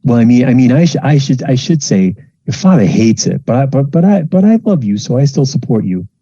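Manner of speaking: put-on high, fussing mother pleading with her child; a fretful mom talking her kid round; worried mom. Mom seeing her child off to university, fussing and high.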